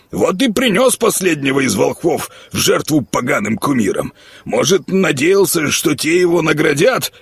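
high-pitched miller ranting about the madman; fussy old miller. Acted. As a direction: gossip like a scared village miller. Miller warns Горехвост.

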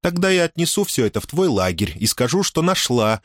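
high, playful threat; teasing girl. A narrator's reading. Дая весело грозит, дразнит. (дразнящий девичий голос повыше)

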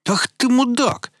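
very high, loud angry howl. Acted. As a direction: howl the insult furiously. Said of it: "взвыл Роман".

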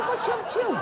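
high, squealing mock alarm; mock shocked protest. Preacher mimicking himself, squealing in mock shock. Ustaz acting surprised at selfie.

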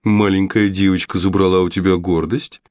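light sneering taunt aimed at the witch; mocking tone. Boy mildly mocks the witch about her lost pride. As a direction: needle her with mock concern. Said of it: "издевательским тоном спросил он".

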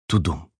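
the heartbeat fades into the hush; fading heartbeat. A narrator's reading. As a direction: let the second beat die away.

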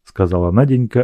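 usual speaking voice

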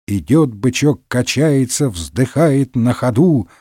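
measured sing-song verse; reciting children's rhyme. A narrator's reading. Porthos on the shaky bridge, reciting a rhyme. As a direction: recite it slowly like a nursery poem. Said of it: "начал декламировать детский стишок Портос".

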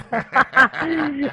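high loud burst of laughter. Real, not acted. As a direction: crack up laughing. (громкий смех)

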